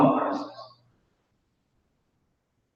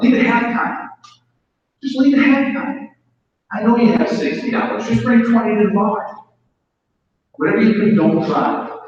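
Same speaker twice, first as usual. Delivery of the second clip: higher, coaxing voice of the addicted mind; tempting inner voice; 5 semitones higher than usual. Retold or imitated. His head luring him to the bar, higher coaxing voice. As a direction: sweet-talk him into one more drink. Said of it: "this is how my head would talk".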